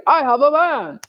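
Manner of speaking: lightly mocking show-off claim; a touch of put-on pride; mock boast. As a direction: announce it like an empty achievement. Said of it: "Look at me complying with society".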